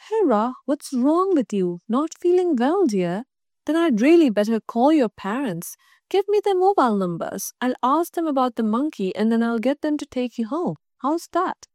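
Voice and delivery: a hint of a concerned school head; kindly principal. Principal fussing over a pupil, lightly voiced.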